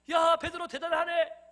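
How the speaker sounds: high, loud, drawn-out admiration. Acted. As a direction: cheer a friend's amazing feat. Disciples marvel at Peter, acted. (높고 크게 감탄하며 외침)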